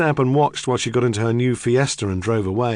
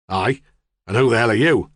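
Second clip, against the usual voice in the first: lightly voiced blunt northern farmer; a hint of a hostile local farmer; gruff farmer. Farmer challenging the detective in his kitchen, blunt and gruff.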